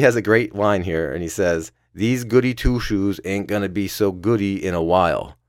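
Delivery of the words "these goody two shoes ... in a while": lightly attempted New York accent; a rough stab at New York talk; imitating someone with a hint of New York accent. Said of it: "my New York accent for a Minnesota man".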